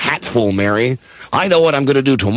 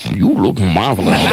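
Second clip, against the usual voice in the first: laughing; 5 semitones lower than usual. Real, not acted. Nervous compliment breaks into laugh.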